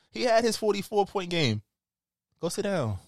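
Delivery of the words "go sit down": mock French accent for Fournier; put-on accent. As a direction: tease in a fake accent. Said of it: "You didn't have to put that accent on".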